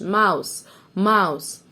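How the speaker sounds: "ماوس" ending on the s; silent final E. Shown as a demonstration. Teacher models mouse for pupils, final E silent in "ماوس". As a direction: say "ماوس" with no vowel after the s. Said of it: "وال E في الآخر ما ننطقهاش".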